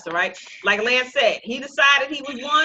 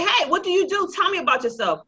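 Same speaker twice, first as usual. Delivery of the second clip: приветливое обращение к незнакомцу; 8 semitones higher than usual. Acted. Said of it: "when you walk up to somebody and you say".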